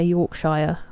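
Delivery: Yorkshire said with a full "shire", "york-SHY-er"; laughable mispronunciation. Shown as a demonstration. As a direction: misread the end of Yorkshire as "shire". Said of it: "we will all laugh at you".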